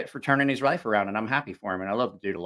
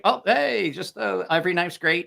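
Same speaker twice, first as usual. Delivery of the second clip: mock cheery reviewer; 5 semitones higher than usual. Mocks an uncritical, timid reviewer.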